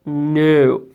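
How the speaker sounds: a lightly voiced grumpy president, gruff no; grumpy refusal. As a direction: give a curt, grouchy no. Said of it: "Pierce grumped".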